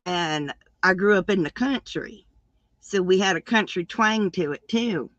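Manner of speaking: easy country Southern lilt; Southern country twang. Shown as a demonstration. Describing a country upbringing, Southern country twang. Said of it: "We were all like this".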